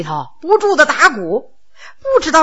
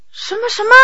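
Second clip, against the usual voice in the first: startled what; 8 semitones higher, 8 dB quieter, faster than usual. Acted. Eighth brother stunned by the accusation, startled high. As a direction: jump higher, caught off guard.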